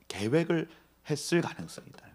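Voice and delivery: ordinary delivery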